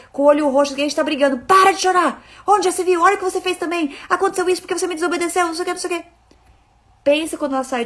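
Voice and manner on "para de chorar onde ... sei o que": higher, louder harsh scolding; angry yelling. Retold or imitated. Parent yelling at a hurt crying child, loud and harsh.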